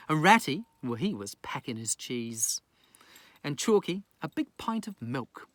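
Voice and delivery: lilting bedtime storyteller; gentle sing-song reading of a rhyme; bedtime story narration. Acted. Reads bedtime rhyming story.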